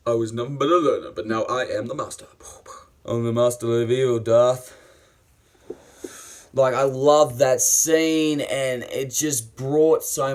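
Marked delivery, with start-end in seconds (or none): 0.1-4.7 recited villain line. Acted. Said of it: "It's like".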